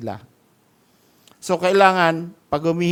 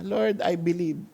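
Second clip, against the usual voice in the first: tearful plea. Retold or imitated. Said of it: "Sabi niya".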